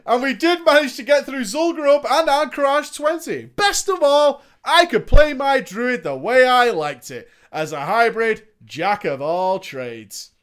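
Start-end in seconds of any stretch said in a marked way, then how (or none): none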